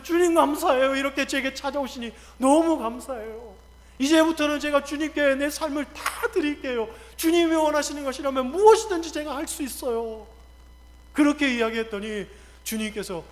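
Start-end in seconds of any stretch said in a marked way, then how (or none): 0.0-10.3 higher, fervent acted thanks; overflowing gratitude. Dreamer thanking the Lord for visiting, fervent gratitude. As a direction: pour out an eager, grateful vow.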